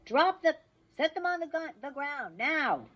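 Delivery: loud, high megaphone order; megaphone cop. Acted. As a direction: bark it through a megaphone. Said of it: "police voice on the megaphone".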